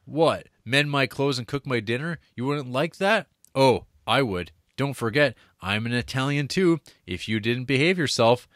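a hint of a teasing Italian suitor; Giovanni reading. Reading Giovanni's lines to Mary, lightly acted. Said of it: "old Giovanni and Mary".

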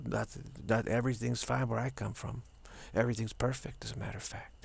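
put-on lightly accented, self-assured Latin friend; easygoing Spanish with a hint of Italian; Juan Carlos, slight Italian-Spanish accent. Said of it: "Juan Carlos is from".

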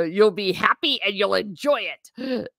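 a playful hint of classroom sternness; stern teacher voice. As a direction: order cheer like a mock-strict teacher. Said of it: "the teacher voice comes in".

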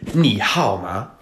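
你好吗 with up, down, up tones; fake Chinese tones. Shown as a demonstration. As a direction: sing 你好吗 up, down, up. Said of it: "get the voice inflections down".

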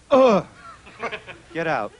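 disgusted dismissal. Pretend. A man acting out waking up after a one-night stand, disgusted and curt. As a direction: wake up repulsed and toss them out. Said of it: "Here's my impression of a one-night stand".

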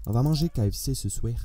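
put-on light Canadian French accent. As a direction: say it with a Québécois accent. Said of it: "j'ai fait l'accent canadien".

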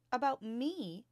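a startled, rising "About me?"; surprised cry. Acted. Teacher startled to hear a limerick about her, surprised cry. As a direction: caught off guard, voice jumping up. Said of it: "Miss Honey cried".

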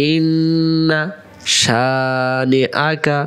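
ইন্না শানিআকা, drawn out; slow recitation. Shown as a demonstration. Teacher reciting the verse slowly. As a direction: stretch every syllable. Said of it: "আবার".

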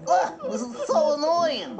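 talking through hiccups; hiccuping mid-sentence. Acted. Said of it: "get hiccup like this".

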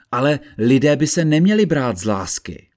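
sententious judge's maxim; stating universal truth. A narrator's reading. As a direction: declare it as an obvious general truth. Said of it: "tónem člověka, který pronáší obecnou pravdu".

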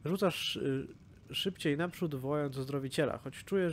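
storyteller reading a sad dragon death scene; story narration. Acted. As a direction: narrate it like a bedtime tale, dialogue lightly voiced. Reads dragon scene aloud.

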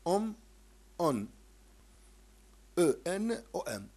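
"أم" "أن" "إن" "إم" with barely sounded endings; light nasals. Shown as a demonstration. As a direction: clip each ending nasal so it barely shows. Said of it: "لا تظهر، لا تظهر". (نطق الميم والنون خفيفتين)

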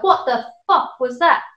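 partner's stunned, slow swearing; shocked outburst. Retold or imitated. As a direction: imitate a boyfriend's startled curse. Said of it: "He was like".

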